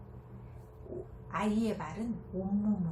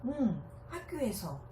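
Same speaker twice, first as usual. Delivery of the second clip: pleasantly; 5 semitones higher than usual. Acted. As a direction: welcome the child's story gladly. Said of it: "기분 좋게". (기분 좋게 맞장구치는 엄마)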